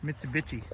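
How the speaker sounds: "Mitsubishi" with CH replacing the final SH; deliberate mispronunciation. Shown as a demonstration. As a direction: say "Mitsubishi" as mit-suh-BITCH-ee. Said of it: "you pronounced it wrong".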